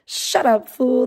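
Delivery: light tough-guy bark; Mister T impression. Streamer quoting Mister T, mild gruff bark. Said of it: "That's what Mister T would tell you".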